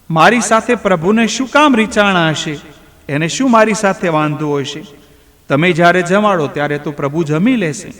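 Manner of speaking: put-on a hurt child asking why, a touch weepy; a boy pleading with his father, lightly tearful; crying voice. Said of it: "ધનાએ રડતા અવાજે કહ્યું".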